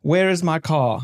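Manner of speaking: South African vowels; South African accent demo. Shown as a demonstration. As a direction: model a short South African phrase. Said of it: "like, typical South African".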